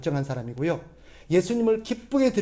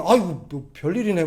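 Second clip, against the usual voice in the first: gruff teasing. Retold or imitated. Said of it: "막 투박하게".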